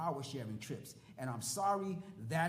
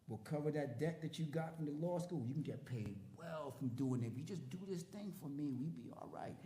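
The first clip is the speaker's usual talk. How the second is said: imitating a smooth recruiter; 5 dB quieter than usual. Voicing gatekeepers' tempting offer.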